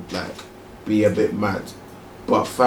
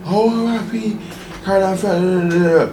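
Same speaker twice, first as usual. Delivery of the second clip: mocking sympathy; 9 semitones higher than usual. Mocking fake public grief.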